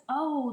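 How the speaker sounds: "O" drawn out as the letter's name; long O sound. Shown as a demonstration. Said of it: "the long O sound".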